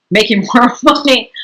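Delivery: real brief chuckle mid-phrase; laughing. Real, not acted. Interviewer comparing unpaid chores to sweatshops, laughing. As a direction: let a small laugh slip into the words. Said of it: "I mean, I'm laughing".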